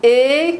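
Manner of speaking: «et» with the pitch sliding sharply up, a closed é; rising et. Shown as a demonstration. Teacher showing Portuguese speakers the rising French é. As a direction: lift «et» high like the top of a step. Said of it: "qui monte en français".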